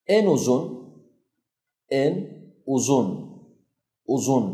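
uzun with a thick emphatic z; teacher models uzun for students. Shown as a demonstration. نطق uzun بزاي مفخمة. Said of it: "حرف الزي مضخم".

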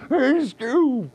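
high, loud Shaggy voice; Shaggy impression. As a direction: do a lazy stoner "Hey, Scoob". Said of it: "He goes".

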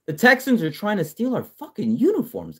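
hammed-up squeal of fan outrage; mock outrage. Fan to viewers about Texans stealing uniforms, hammed-up high outrage.

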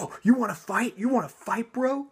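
high, taunting imitation of an angry driver; mock tough guy. Angry driver challenging the narrator, high mocking taunt. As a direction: jeer it like a road-rage bro. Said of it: "he starts flipping the shit out".

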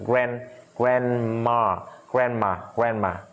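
American "grandma" with an e-like first vowel; American accent. Shown as a demonstration. Teacher drills students on grandma, American accent. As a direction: model "grandma" in American English. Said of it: "Mỹ grand".

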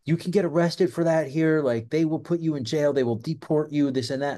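high-pitched alarmed scolding, retold; mock freak-out. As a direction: act out someone flipping out with a warning. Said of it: "she flips out".

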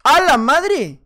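loud, high burst of amazement; astonished exclamation. Real, not acted. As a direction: exclaim in real shock. Amazed at his time.

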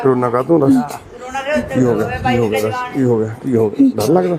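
low-pitched, coaxing questions; real low soothing voice; tender consoling. Real, not acted. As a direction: gently ask a crying elder what's wrong. Consoling a crying old man.

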